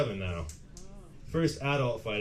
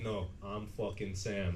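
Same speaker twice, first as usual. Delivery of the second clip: low, slow, quiet insistence; drawn-out deadpan claim to the name; rival Sam; 4 semitones lower, 7 dB quieter, slower than usual. Acted. Rival passenger disputing who Sam is, low and slow.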